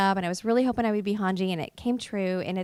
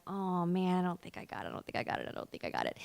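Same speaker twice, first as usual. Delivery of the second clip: fading mutter; 4 semitones lower, 9 dB quieter than usual. Retold or imitated. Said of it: "And I was like".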